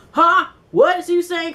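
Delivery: confused surprise. Retold or imitated. Naya confused by background noise.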